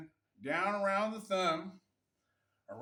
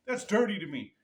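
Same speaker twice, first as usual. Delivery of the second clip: mock thick Russian accent, louder; 6 dB louder than usual. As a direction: imitate a Russian fighter's accent, laid on. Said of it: "his accent wasn't that thick".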